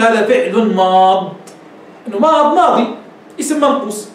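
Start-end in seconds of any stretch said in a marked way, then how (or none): 0.0-1.3 ماض said slowly and lower, stopping on the ض; slow, careful هذا فعل ماض with the ي dropped; teacher models the most correct pause; eloquent pausal form. Shown as a demonstration. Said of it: "الافصح ان تقول".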